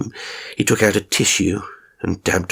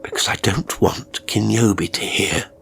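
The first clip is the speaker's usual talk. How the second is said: whisper. Acted. Old man whispering to the listener so Kinyobi won't hear. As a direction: whisper so the carer can't hear. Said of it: "talking quietly".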